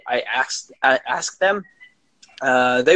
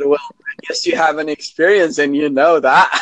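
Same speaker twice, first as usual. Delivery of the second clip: laughing through the words; breathy giggle while speaking. Real, not acted. Laughing while retelling the quote.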